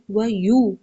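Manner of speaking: و یو with a clear rounded "yoo"; و یو with a pure close u; correct yu. Shown as a demonstration. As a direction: say و یو as "wa yuu". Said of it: "یو کی آواز آنی چاہیے".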